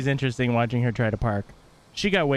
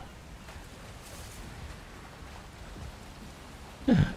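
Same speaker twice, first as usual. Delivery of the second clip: high, soft gasp of discovery; delighted gasp; 11 semitones higher, 11 dB quieter than usual. Pretend. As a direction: gasp at a present. Discovers the boat made for them.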